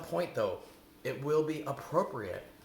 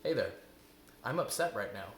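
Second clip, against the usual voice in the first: calm, neutral voice; 2 semitones lower than usual. Shown as a demonstration. Coach showing how to name being upset, calm and neutral. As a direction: state it calmly, without judgment. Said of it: "Remember that calm, neutral voice?".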